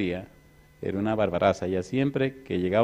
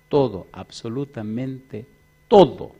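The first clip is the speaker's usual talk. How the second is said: emphatic burst; 3 dB louder, slower than usual. Acted. Sudden burst after quiet.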